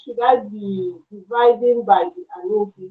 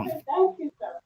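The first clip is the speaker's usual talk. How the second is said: barely audible; 7 semitones higher, 8 dB quieter than usual. Real, not acted. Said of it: "your voice is very low".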